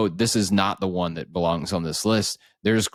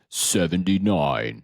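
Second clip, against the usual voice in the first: announcer voice; 2 semitones lower than usual. Shown as a demonstration. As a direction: announce it like a big reveal. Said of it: "I'm wondering if I should do a special voice".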